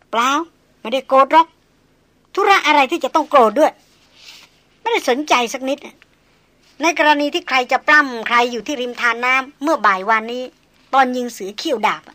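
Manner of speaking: a lady brushing off the hunter, tart and proud; sharp young noblewoman. Acted. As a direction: snap back as the haughty young lady. Young noblewoman denies being angry.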